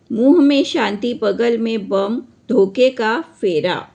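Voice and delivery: emphatic, measured verse reading; declaimed Hindi poem with marked rhythm; poem recitation. Acted. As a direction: recite the stanza firmly, line by line. Recites the poem's stanza.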